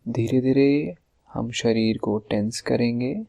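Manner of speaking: measured instructions with long pauses, phrase endings stretched; guided relaxation exercise. Acted. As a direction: lead the listener step by step through tensing the body. Leads a body-tensing relaxation exercise.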